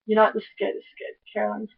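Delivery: hushed, breathy-free whisper, voice dropped away; whispered aside. Retold or imitated. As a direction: whisper it like a secret approval. Retold own whispered approval.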